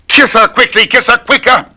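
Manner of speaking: sudden high piping voice; a tongue twister squeaked out; high squeaky. Shown as a demonstration. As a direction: jump up into falsetto.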